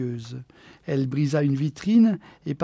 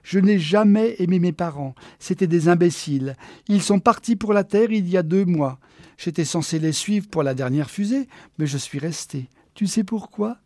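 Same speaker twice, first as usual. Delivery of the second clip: lively higher-pitched character voice; self-satisfied Geneviève, boastful; 4 semitones higher, 4 dB louder than usual. Acted. Geneviève tells Walter about her queenly life, boastful. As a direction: brag with breezy disdain.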